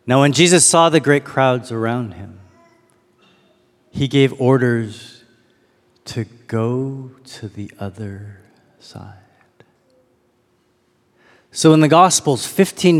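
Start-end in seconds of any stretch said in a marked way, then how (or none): 0.0-9.1 slow scripture reading, long pauses between phrases. Real, not acted. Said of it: "I'm gonna read each verse slowly".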